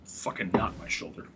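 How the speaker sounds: whispered curse through pain. Real, not acted. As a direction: hiss it out, hurting. Shoulder hurts, swearing under breath.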